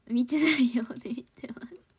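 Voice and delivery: whisper. Pretend. Teasing aside to fans.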